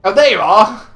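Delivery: imitating a confused NPC. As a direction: play him dim and surprised. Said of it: "he's going".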